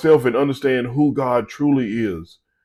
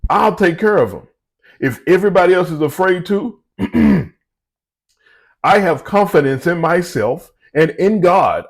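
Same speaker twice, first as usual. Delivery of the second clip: put-on higher, bold young warrior voice; confident young David; 3 semitones higher than usual. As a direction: brag it like a cocky kid. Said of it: "David's confidence come out. He go".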